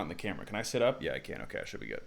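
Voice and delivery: talking to himself off-mic; muttered aside. Real, not acted. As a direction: drop to a breathy aside while fixing the camera. Muttered aside while adjusting camera.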